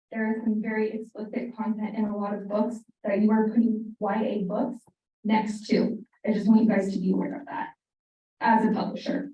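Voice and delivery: nervous, trembling voice; shaky voice. Real, not acted. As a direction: voice shaking with nerves. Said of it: "Sorry, my voice is shaking".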